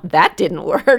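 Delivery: light, smiling parental correction; playful, good-humoured verdict; said with a smile. Acted. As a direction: tease it gently, no anger. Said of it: "say it with a smile".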